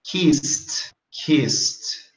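"kissed" as one syllable, kiss-t. Shown as a demonstration. Teacher models "kissed" for learners, ending in T. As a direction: close "kissed" on a T. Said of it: "que você falaria".

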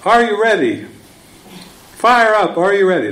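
high, loud cheering call; rally cry. Retold or imitated. Lady rouses the meeting, high cheering shout. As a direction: pump up the room. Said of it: "And then she goes".

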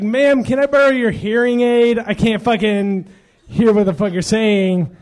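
mock loud retort. His retort to old woman.

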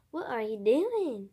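slow Southern country drawl; country accent. Shown as a demonstration. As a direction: drawl it like a cowboy. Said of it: "here's how you do the real country accent".

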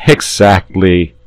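slow, smiling saint; a touch of a pleasant smile. Acted. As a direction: agree with a smile. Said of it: "smiling pleasantly".

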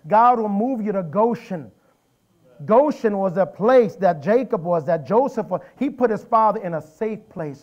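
loud, emphatic sermon delivery; forceful preaching. Real, not acted. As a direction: proclaim it to the congregation.

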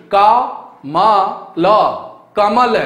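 का, म, ल spaced with pauses, then कमल; teacher splitting कमल into sounds; sounding out syllables. Shown as a demonstration. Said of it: "कानों में ध्वनि गई वह क्या क्या गई?".

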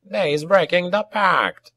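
high, slow goblin holler; drawn-out goblin shout of accusation; alarmed cry. A narrator's reading. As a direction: cry treachery to the troops in goblin voice. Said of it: "cried Dagskar".

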